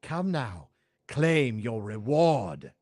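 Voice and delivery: proud, menacing evil sorceress; villain sorceress voice. Acted. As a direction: lord it over the hero, coldly. Sorceress continues her threat.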